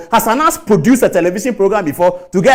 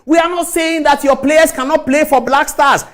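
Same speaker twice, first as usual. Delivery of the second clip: heated shout; 5 semitones higher than usual. Real, not acted. Heated rebuttal on radio.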